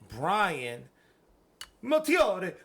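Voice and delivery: belted out high and loud; yelled name. Shown as a demonstration. Hosts shout a Patreon member's name, loud announcer yell. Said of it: "his name is mad fun to fucking yell".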